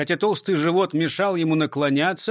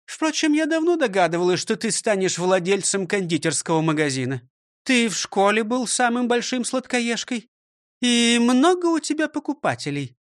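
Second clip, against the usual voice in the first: higher, scolding schoolmistress voice; stern old teacher; 6 semitones higher than usual. Acted. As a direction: lecture him like a strict teacher. Teacher questions pupil. (строгая учительница)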